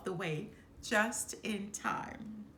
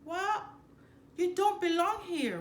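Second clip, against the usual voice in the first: emphatic Rafiki; 10 semitones higher, 7 dB louder than usual. A narrator's reading. Voices Rafiki.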